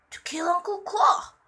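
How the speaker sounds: measured, understated character line; very calm. A narrator's reading. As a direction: say it calmly, without shouting. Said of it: "Very calmly, he said".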